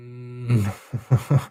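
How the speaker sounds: short amused laugh; a quick, wordless chuckle. Real, not acted. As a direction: laugh briefly to yourself. Amused by a troll in chat.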